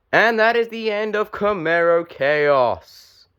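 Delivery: excited call. Real, not acted. Team eliminated, live commentary.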